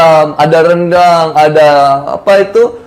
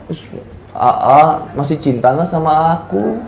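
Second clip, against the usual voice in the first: imitated coy wife; 3 semitones lower, 5 dB quieter than usual. Wife asking husband if he loves her, imitated coyness. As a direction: play a wife gently fishing for reassurance.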